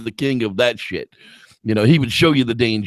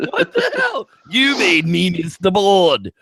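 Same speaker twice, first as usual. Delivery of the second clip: put-on drunk darts player; 3 semitones higher than usual. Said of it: "it's like".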